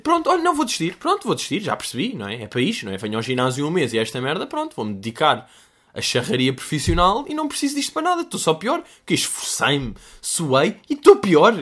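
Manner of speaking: high whiny mock complaint, giving up; a hammed-up high voice moaning in defeat; demotivated Titão. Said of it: "Titão completamente desmotivado a dizer".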